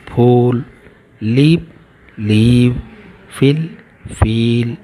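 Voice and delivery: short vowel in फिल, long drawn ee in फील; vowel pairs. Shown as a demonstration. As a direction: read each pair, short then long. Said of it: "Find other pairs of word".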